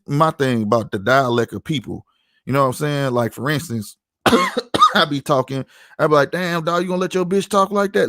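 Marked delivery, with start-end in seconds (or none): 6.3-8.1 lightly acted Saint Louis banter, pitched up; Saint Louis talk. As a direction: demonstrate casual Saint Louis slang talk. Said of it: "me and another Saint Louis nigga talk".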